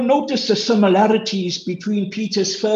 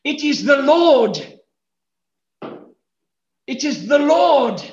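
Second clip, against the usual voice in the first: simple; 7 semitones higher than usual. Acted.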